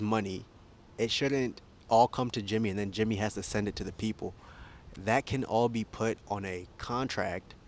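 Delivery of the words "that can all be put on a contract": talking while being jostled; shaky recording. Real, not acted. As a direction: speak while being shaken. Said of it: "I'm sorry for the shaking".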